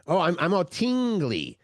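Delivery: put-on "tingly" said as "teengly"; long-ee TINGLY. Shown as a demonstration. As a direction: exaggerate the ee in "tingly". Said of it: "it would be P E E N G".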